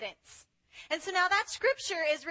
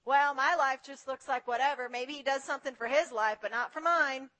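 mock grumbling; 4 semitones lower than usual. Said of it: "we're just like".

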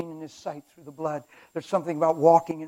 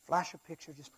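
Satan; 10 dB quieter than usual. Acted. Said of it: "I have Satan over here like this".

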